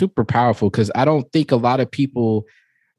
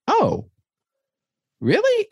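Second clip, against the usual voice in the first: exaggerated high-pitched "oh, really?"; dad hamming up surprise for his five-year-old; mock surprise; slower than usual. Dad mock-surprised at son's remark.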